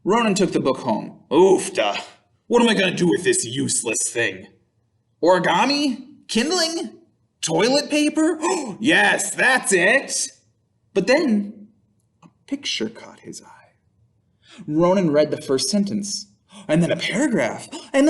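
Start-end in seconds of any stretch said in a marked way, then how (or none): 1.3-10.3 grumbling barbarian. Acted. Ronan grumbles over the book. 12.2-13.7 whispered, secret reveal; hushed narration. A narrator's reading. Reading to children, a whispered suspense turn.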